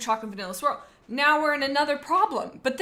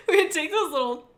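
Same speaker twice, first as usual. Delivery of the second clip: giggling through the words; laughing; 7 semitones higher, 5 dB louder than usual. Real, not acted. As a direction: laugh while recalling. Laughing at a childhood memory.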